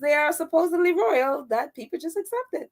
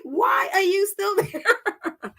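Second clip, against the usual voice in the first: laughing disbelief; 5 semitones higher, much slower than usual. Retold or imitated. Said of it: "I'm like".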